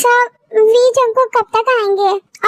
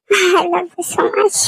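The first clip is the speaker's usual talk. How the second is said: slow, low and tender; 4 semitones lower, much slower than usual. Acted. Tender confession after reunion. (धीमी, कोमल आवाज़ में)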